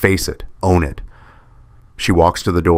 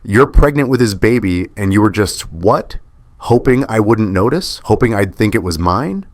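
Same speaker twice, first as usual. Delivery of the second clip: yelling; 4 semitones higher than usual. Acted. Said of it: "I'm yelling and I can't stop".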